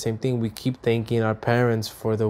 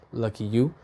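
sarcastic aside; 6 dB quieter than usual. Pretend. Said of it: "Just kidding, just kidding".

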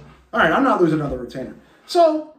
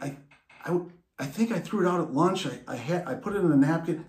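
meek confession; 4 dB quieter, faster than usual. Retold or imitated. Scared son confesses.

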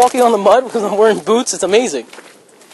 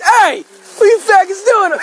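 scary white guy voice; 10 semitones higher, slower than usual. Retold or imitated. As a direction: bark it like a menacing stranger. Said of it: "that scary white guy voice".

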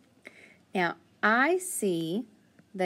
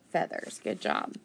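soft whispered approval; whispered praise; 3 semitones lower, 3 dB quieter than usual. Real, not acted. Teacher praising a child.

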